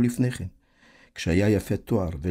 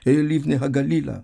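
high, raised-voice chant; rhythmic shout, pitched up; 7 semitones higher, 4 dB louder than usual. A narrator's reading. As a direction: chant it out like dancing fools. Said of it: "רוקדים וצועקים".

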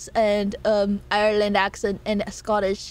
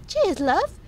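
Tracer impression; 8 semitones higher than usual. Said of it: "so I can't say Tracer".

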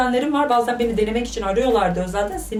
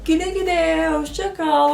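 dismissive; 8 semitones higher than usual. Real, not acted. Sending a man away.

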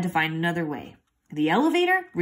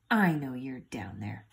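dog voice; 6 semitones lower, 4 dB quieter than usual. Acted. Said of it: "he yapped to Ralph".

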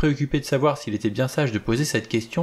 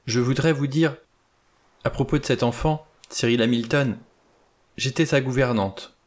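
trembling voice; 3 semitones higher than usual. Acted. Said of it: "d'une voix tremblante".

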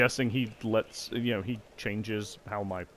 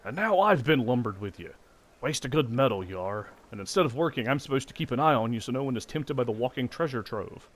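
louder, grumbling soldier; grumpy guard; 2 semitones higher, 4 dB louder than usual. Acted. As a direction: grumble about guard duty. Grumpy guard reads lines.

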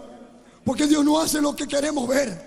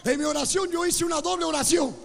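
raised, projected preacher's voice; impassioned preaching; 3 semitones higher than usual. Acted. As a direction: testify fervently to the congregation.

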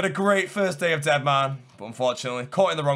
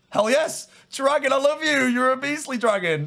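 high, delighted exclamations; thrilled, high-pitched praise; elated cheering; 10 semitones higher than usual. Real, not acted. Delighted the dragon attacks his target.

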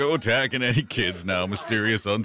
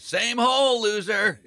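creepy vulture croak; 13 semitones higher, slower than usual. Acted. Falcon repeats taunt.

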